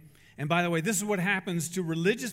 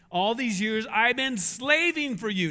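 resentful complaint; 3 semitones higher, 5 dB louder than usual. Acted. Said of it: "does this sound very joyful?".

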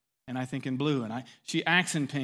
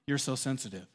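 louder, pointed non-apology; insincere apology; 2 semitones lower, 5 dB louder than usual. Acted. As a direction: stress "sorry" with scornful blame. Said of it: "could mean".

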